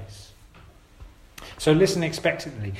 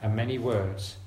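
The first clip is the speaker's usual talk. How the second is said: slow scripture reading; 2 semitones lower than usual. Real, not acted. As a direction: read slowly and deliberately, with long pauses. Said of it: "I'm gonna read it slowly".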